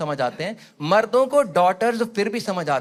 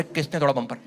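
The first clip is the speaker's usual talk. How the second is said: put-on lower, quieter lisping baby voice; softened cop questioning in baby talk; cop asking in baby talk; 6 semitones lower, 11 dB quieter, faster than usual. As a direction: policeman playing along in baby talk. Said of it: "कर".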